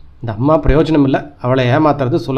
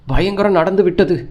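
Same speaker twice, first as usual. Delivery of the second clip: a hint of terror, pitched higher; frightened mother, higher voice; mild frightened cry; 4 semitones higher than usual. Mother wailing the terrible news on the phone, mild fright. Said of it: "என்று அம்மா அலறினாள்".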